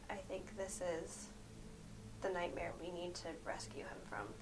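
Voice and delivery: hushed in-character whisper. Acted. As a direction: whisper it so they can't hear. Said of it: "I'm gonna say".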